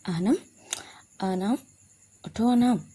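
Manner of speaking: waking someone by name; calling to wake her. Acted. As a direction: call her awake, gently then firmer. Waking a sleeping girl.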